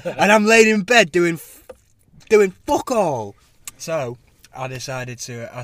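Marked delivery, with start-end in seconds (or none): 0.0-3.3 laughing. Real, not acted. Laughing at himself in bed.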